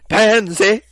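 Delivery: "Pansy" high and loud, laughing through it; schoolgirl "pansy". Shown as a demonstration. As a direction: squeal out "Pansy" like the game girl. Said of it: "She says pansy like that".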